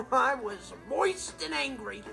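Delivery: slow, drawn-out grievance; slow, aggrieved emphasis; comic indignation. Acted. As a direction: savour each word of the complaint. Comic indignation after lake dunking.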